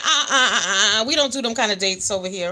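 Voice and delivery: stammering through real laughter; cracking up while turning down the date; laughing too hard to get the words out. Real, not acted. Teasing viewer about date, cracking up.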